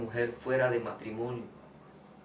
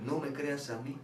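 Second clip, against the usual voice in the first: whispering to the brother to read the Bible; whispered urging; 6 dB quieter than usual. Retold or imitated. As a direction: hush it like a secret. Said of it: "le dije a él".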